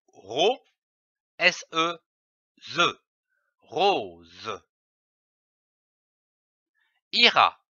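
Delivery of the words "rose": lecture grave. Shown as a demonstration. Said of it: "Je lis une phrase".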